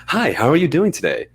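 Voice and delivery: bright phone voice at the front desk. Retold or imitated. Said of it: "much more animated and higher pitch".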